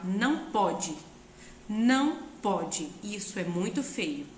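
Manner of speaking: put-on slow, firm correction of a toddler. Shown as a demonstration. Mother scolding her small child, slow and firm. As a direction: set the limit calmly and firmly. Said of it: "vai segurar a mão dessa criança e vai falar".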